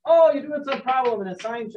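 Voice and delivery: lightly Canadian-accented mock teacher quote. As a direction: slip into a high-pitched Canadian accent. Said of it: "I'm speaking in Canadian accent".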